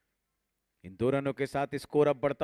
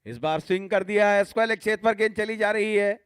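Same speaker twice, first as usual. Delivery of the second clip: excited cricket commentary; 4 semitones higher than usual. Real, not acted. Four hit in live commentary.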